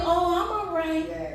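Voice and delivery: imitating someone pretending all is well; mock nonchalance. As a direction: brush it off like nothing's wrong. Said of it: "telling you".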